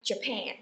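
"Japan" said ja-PAN; "Japan" with a stressed second syllable. Shown as a demonstration. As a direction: put the weight on the end of "Japan". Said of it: "chúng ta nhấn vần thứ hai".

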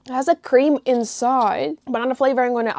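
talking while chewing; mouth full of mochi. Real, not acted. Seen 1: bites mochi at -2.0, talks with chewing mouth until hidden.

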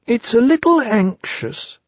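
high, slow, small timid piglet voice; anxious Piglet. A narrator's reading.

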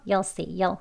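YOU'LL as a short "yuhl"; casual contracted "You'll see"; reduced you'll. Shown as a demonstration. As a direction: keep "You'll" to one weak beat. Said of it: "간소한 발음".

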